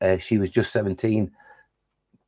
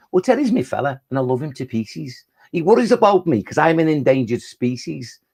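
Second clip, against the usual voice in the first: Norma the Newt; 2 semitones higher than usual. Acted. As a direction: play a chatty newt reciting her verse. Recites a poem as Norma.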